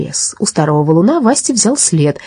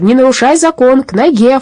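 raised, higher-pitched order; shouted command; 8 semitones higher, 4 dB louder than usual. A narrator's reading. Policeman ordering his dog back, shouted command. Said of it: "крикнул господин Дипфельмозер".

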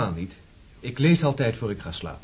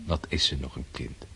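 whispered thought; 9 semitones lower, 6 dB quieter than usual. Acted. Man's inner thought at night.

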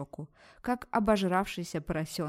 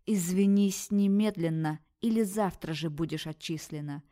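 through gritted teeth; 3 dB louder than usual. Acted. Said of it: "процедила".

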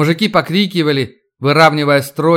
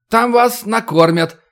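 flustered official speech; 8 semitones higher than usual. Acted. Official continues.

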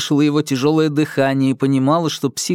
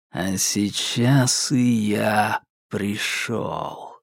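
low, very slow, dragged-out menace; like a tape played at half speed; 3 semitones lower, 4 dB quieter, much slower than usual. A narrator's reading. Psycho corrects Alka in a low dragging voice. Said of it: "низким, будто заторможенным голосом".

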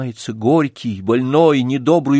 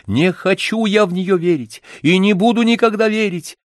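higher, insistent declaration; impatient insistence; 9 semitones higher than usual. A narrator's reading. Man insists to Olesya he won't believe fate, insistent. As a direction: refuse to believe, stubbornly. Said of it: "воскликнул я нетерпеливо".

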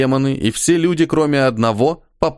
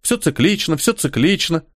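high singsong repeated motto; Khali voice; 7 semitones higher than usual. A narrator's reading. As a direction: chant it lightly, teasing.

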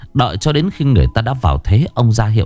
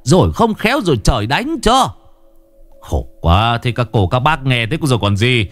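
lightly voiced pleading villager, higher; a slightly raised, urging plea; 7 semitones higher than usual. Villager urging the family to open the coffin, lightly voiced plea.

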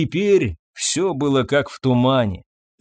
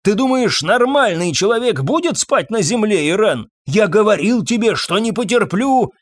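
ranting; 7 semitones higher than usual. A narrator's reading. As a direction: rail at her without stopping. Drunk husband ranting at wife.

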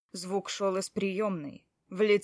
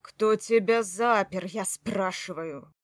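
angry demand; 4 dB louder, slower than usual. Acted. Angry husband demands answer.

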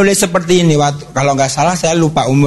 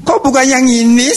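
surprised question; 7 semitones higher than usual. Retold or imitated. Father surprised at which boy.

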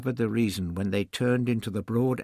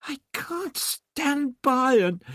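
high, slow, pleading woman's voice; a distressed young woman begging; Barbara's voice pitched up high and drawn out; distraught woman; slower than usual. Acted. Barbara protests, cut off.

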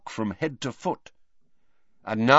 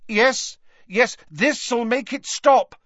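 lying reassurance; 10 semitones higher, 4 dB louder, slower than usual. Acted. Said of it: "lied Harry".

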